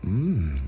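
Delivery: long "mm" of tasting; savoring hum. Shown as a demonstration. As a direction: hum softly as if tasting a lollipop. Acting out savouring a lollipop.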